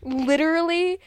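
ordinary delivery

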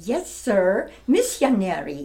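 put-on light Siamese accent with a laugh; a laughing, over-accented reply; Lady Chiang accent. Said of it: "over-accented a little bit".

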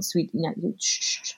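put-on soft, voiceless shushing of a child; gentle hushing. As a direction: imitate a mother quietly hushing her son. Mother hushing son's celebration.

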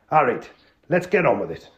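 put-on Geordie accent. Tony checking the crooks have tea, Geordie. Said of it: "an authentic, uh, Northerner".

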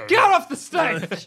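laughing, drawn-out heckle; heckling shout. Acted. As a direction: boo them off the stage. Heckling the comedian.

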